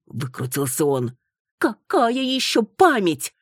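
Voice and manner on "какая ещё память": hissing. Acted. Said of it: "зашипела Маруся".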